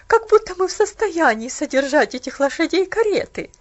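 loud, bitter refusal; bitter aunt. Acted. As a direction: scorn the idea loudly.

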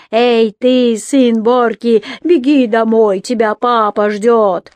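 loud mocking jeer at a captive; jeering shout. Robbers jeer at the captive son, loud mocking taunt. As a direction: taunt him like a mob. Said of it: "кричали, глумясь над ним".

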